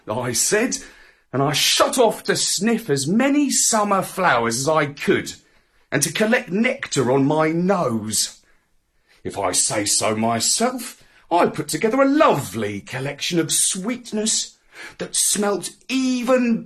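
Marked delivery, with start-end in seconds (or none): none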